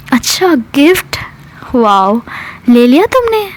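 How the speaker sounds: mock-impressed, ending in a high question; acted sarcasm. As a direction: feign being impressed, then accuse. Jealous mock reaction to a gift. (ताना मारते हुए)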